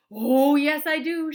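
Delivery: high, loud gleeful shout. A narrator's reading. Wonka shouting back at Grandpa Joe. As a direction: shout it with glee. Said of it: "shouted Mister Wonka".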